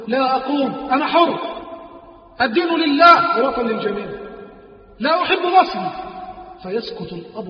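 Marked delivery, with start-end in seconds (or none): 0.1-5.9 mocking defiance. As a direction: toss the words back at the father with scorn. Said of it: "يرد عليه في تهكم". (رد ساخر متحد)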